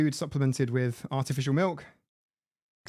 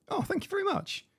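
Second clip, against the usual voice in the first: mock thanks. Mock thanks for vet remark.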